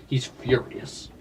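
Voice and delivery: slow, hushed whisper. Shown as a demonstration. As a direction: breathe it out slowly like a secret. Same words repeated differently.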